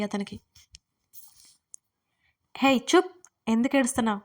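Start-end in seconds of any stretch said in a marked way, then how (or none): 2.6-4.2 high, loud hush-up shout. Acted. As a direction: shout her down. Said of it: "అని అరిచాడు అర్జున్".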